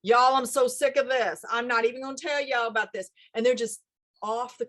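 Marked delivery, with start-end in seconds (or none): 0.0-3.1 a louder, fed-up Southern y'all rant; a mild imitation of a fed-up Southern TikToker. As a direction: vent like a Cajun local on TikTok. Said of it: "they might even just be saying".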